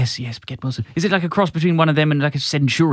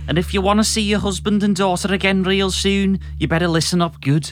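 aggressive growl; 3 semitones higher, 3 dB louder than usual. Acted. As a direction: spell out the threat, taking your time. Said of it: "A masculine voice growls aggressively".

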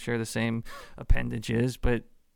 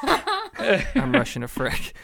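higher, louder, slow and laughing; gleeful laughing repeat; 9 semitones higher, 4 dB louder, much slower than usual. Acted. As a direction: savor it like big news.

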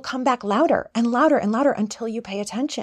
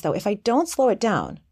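usual speaking voice

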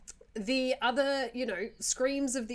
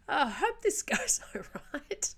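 whispered, nervous and laughing; 5 semitones higher than usual. Retold or imitated. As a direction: breathe it out like a scared flyer. Nervous flyer whisper, acted.

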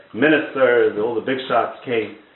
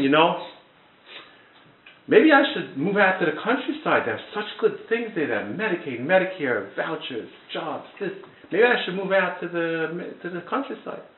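higher, softer voice for a dreamy son; king's son; 4 semitones higher, 5 dB quieter than usual. Retold or imitated. Son tells the king he wants to move out, voiced as the young prince. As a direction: muse aloud softly, pitched up, as the retold son. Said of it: "the king's son turns to the king".

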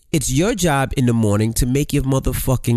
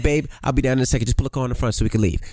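imitating the husband; 5 semitones lower, faster than usual. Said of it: "you be like".

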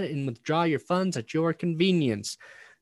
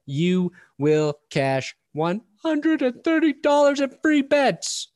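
loud, punchy ad read voice; 4 dB louder than usual. Acted. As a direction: sell it like an energetic ad. Reads a sponsor ad.

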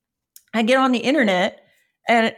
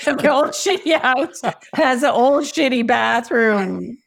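slow, chuckling through the words; amused, drawn-out chuckle; laughing; slower than usual. Real, not acted. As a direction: laugh it out slowly.

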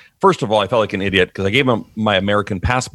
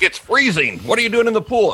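mock disbelief; 11 semitones higher than usual. Friends mocking swimming in winter.

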